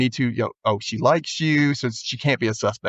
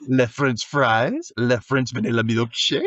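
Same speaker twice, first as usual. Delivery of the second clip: put-on French accent. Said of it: "like, French accent".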